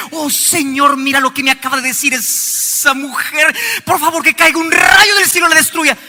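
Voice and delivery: lightly hammed-up pleading prayer, rising high; mock a spiteful believer begging God; mock vengeful prayer. Preacher mocks a spiteful prayer, hammed-up pleading. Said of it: "Irse a Dios y decirle".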